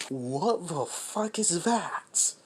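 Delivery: terrified. Retold or imitated. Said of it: "is fucking terrified".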